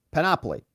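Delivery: "panoply" said pan-OP-oly, lightly; stress on second syllable. Shown as a demonstration. Settling the word for viewers, "panoply" stressed pan-OP-oly. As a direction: stress OP in "panoply", without pushing. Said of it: "the emphasis".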